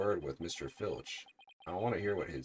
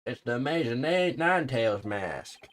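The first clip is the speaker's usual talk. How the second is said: loud, drawn-out gasp of recognition; shocked exclamation; 7 semitones higher, 11 dB louder than usual. Acted. Character recognizing a famous wrestler's mask, shocked. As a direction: cry out in theatrical shock.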